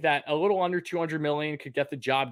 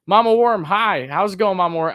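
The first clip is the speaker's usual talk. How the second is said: excited greeting; 7 semitones higher, 7 dB louder than usual. Real, not acted. Greeting a viewer in chat.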